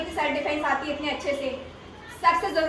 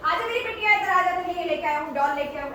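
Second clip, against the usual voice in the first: lightly voiced luring uncle; a hint of sugary enticement, pitched up at first; coaxing stranger. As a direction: mimic a stranger coaxing a little girl. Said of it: "वो पता तुम्हें क्या बोलेंगे".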